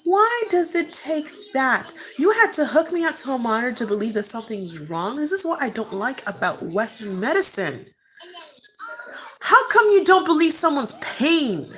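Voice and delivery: worked-up, indignant questioning that flares at the end; getting emotional. Real, not acted. Mother recalls staff disbelieving her pain, real upset indignation. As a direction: challenge them, upset and exasperated. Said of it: "sorry I'm getting emotional".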